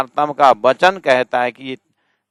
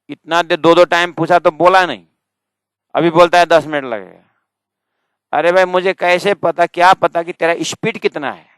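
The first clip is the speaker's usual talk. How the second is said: higher, louder, faster argumentative retort; indignant villager; 5 semitones higher, 4 dB louder than usual. Retold or imitated. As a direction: push back as the offended local. Villager argues back in story. (गाँव वाले की ऊँची, तेज़ दलील)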